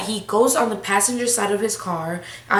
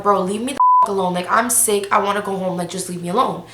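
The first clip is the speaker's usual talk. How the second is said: mildly fed-up pleading with attitude; retold attitude. Telling the man to leave her alone, irritated. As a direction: replay being annoyed and done with him. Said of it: "I'm getting an attitude".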